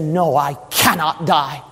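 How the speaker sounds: low, calm, steady refusal; resolute Jesus. Acted. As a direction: answer low and unshaken. Jesus answers calmly.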